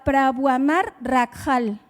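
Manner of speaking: Prabuamar rakhal spoken slowly, careful foreign sounds; foreign phrase. Shown as a demonstration. Preacher quizzes listeners in Bengali, slowly sounded out. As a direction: read Prabuamar rakhal as a strange tongue. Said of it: "Alguien sabe lo que dije?".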